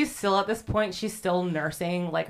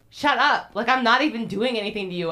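annoyed retort; 4 semitones higher, 5 dB louder, faster than usual. Retold or imitated. Accused woman snaps at screaming girls.

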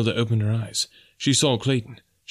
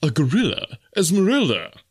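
high, raised voice of alarm; horrified question; 7 semitones higher, 4 dB louder than usual. A narrator's reading. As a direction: ask aghast, pitch leaping on the name. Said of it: "as he voiced the horrible thought".

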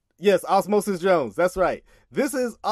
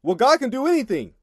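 lightly mocking, pitched-up objection; mimicked objector; 5 semitones higher than usual. Quoting what people like to use, lightly mimicked objection. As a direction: lift it high as someone else's pat argument. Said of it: "people like to use the".

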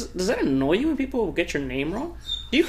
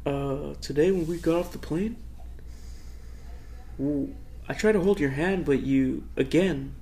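Trump; 3 semitones lower, 6 dB quieter than usual. Pretend. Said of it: "I'm gonna be Trump".

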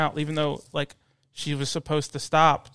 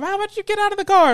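very high, rapid mock demand; mimicked confrontational lady; 6 dB louder, faster than usual. Lady daring mom to leave the car, mimicked confrontational lady. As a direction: parrot her challenge, pitched way up and hurried. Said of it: "she was like".

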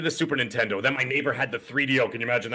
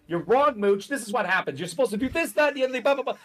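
raised, higher mock rant at the podcast host; retold yelling at phone; 10 semitones higher than usual. Man yelling at a podcast in the shower, mock rant. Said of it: "and I'd yell".

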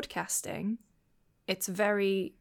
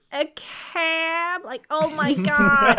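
high, loud, drawn-out scandalised sister; mock outrage; 6 semitones higher, 8 dB louder, much slower than usual. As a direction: exaggerate the horror, dragging out the words. Imitates sister shocked at the word.

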